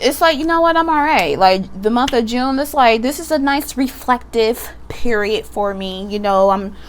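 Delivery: a hint of a sassy talk-show host reflecting on herself; mild campy diva self-affirmation; Wendy Williams meets Billy Porter. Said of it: "That was very Wendy Williams with Billy Porter".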